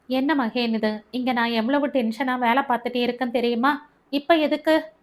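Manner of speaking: annoyed at being called mid-work; irritated. Acted. Busy doctor snapping at Mahen, irritated and quick. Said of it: "கோபமாய் ஆரம்பித்தவள்".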